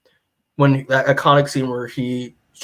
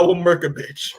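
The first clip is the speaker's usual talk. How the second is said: slightly raised, heated retelling of a threat; mock angry threat; 4 semitones higher than usual. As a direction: play the father half in earnest, out for revenge. Acted furious father's threat in retelling.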